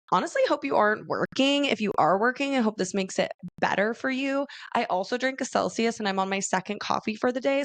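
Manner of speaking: quick, caffeinated chatter; talking fast. Real, not acted. Host on her second coffee, talking fast. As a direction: rattle it off on too much coffee. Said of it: "talking really fast".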